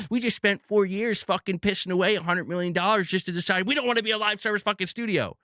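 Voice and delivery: high, sneering mockery of the bosses; sarcastic mock voice. Mocking Sony's decision, sarcastic rant.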